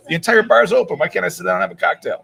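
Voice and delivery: retold protest, pitched high; high-pitched mock disbelief; incredulous protest. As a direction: act out a baffled customer complaining. Retells protesting to bar staff.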